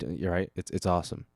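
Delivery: normal talking voice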